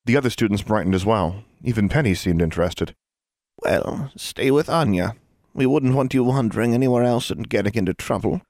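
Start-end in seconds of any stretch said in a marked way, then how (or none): 3.6-8.4 lightly voiced prim old teacher; a hint of a dry schoolmistress; stern teacher. Teacher voice in reading.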